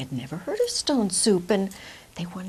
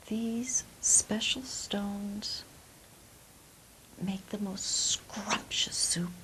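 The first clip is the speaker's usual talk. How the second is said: slow savouring; 3 dB quieter, slower than usual. Acted. Immigrant savours the soup.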